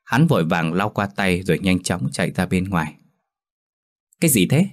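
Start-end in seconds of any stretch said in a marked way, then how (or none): 4.2-4.7 surprised question. Acted. Minh ngạc nhiên.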